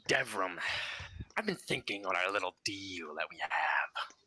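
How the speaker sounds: lightly voiced sweet, sinister father; a hint of a sinister sweet spirit. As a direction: coax him with sinister sweetness. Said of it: "sweet, kinda sinister tone".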